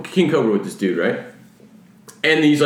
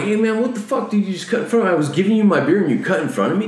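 higher-pitched retold complaint; indignant retelling; 6 semitones higher, faster than usual. Replaying how he confronted the man he shared beer with, indignant.

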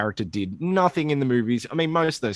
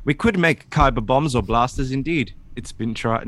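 slipped into Tarkin; 3 semitones higher, 4 dB louder than usual. Acted. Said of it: "No, it's still Tarkin".

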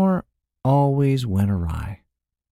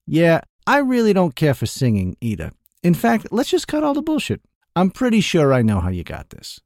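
mocking merchant; 6 semitones higher than usual. A narrator's reading. Merchant teasing the thief about being good, mocking higher voice. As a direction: ham up the doubt.

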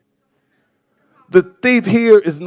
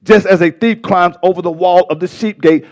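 calmer, more measured preaching; settled, deliberate teaching pace; slowed down; 2 semitones lower than usual. Real, not acted. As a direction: rein it in and explain it steadily. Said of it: "Let me slow down".

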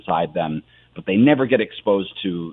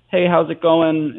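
mock actor's line, louder and slower; musical theater acting; 7 semitones higher, 4 dB louder, slower than usual. Musical actor demonstrating a spoken line, cheery mock acting. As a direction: toss out a hammy stage greeting. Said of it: "where you do some acting".

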